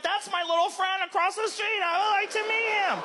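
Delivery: high, innocent little cat; a fake-friendly cat voice; sweet cat voice. Comedian mocking what the cat doesn't think, high.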